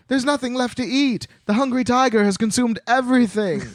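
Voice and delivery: high-pitched story-character shout; hammed-up, high-pitched calling out; acted shout. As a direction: cry it out as a dramatic announcement. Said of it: "Jalea Jam shouts".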